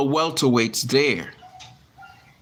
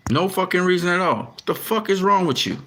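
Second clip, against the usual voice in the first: super angry; 6 semitones higher than usual. Real, not acted. Yelling at his camera for losing focus, real anger. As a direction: repeat it higher, furious at the machine. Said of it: "getting really super angry".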